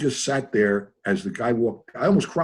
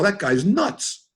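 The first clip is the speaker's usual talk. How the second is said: warning coworkers; 9 semitones higher, much slower than usual. Retold or imitated. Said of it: "They go".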